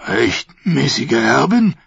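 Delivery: incredulous slow scoff. Acted. The prince scoffing at his niece's claim. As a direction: snort the words out slowly with a rising tune. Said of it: "schnaubte der Prinz".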